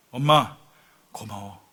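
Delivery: hushed retold gratitude; tender thanks. Condemned son thanks his mother.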